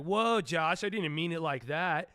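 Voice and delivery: high, loud mock backpedal. A streamer imitating a viewer backpedaling, high-pitched and loud. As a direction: play the viewer who suddenly takes it back. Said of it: "you're like".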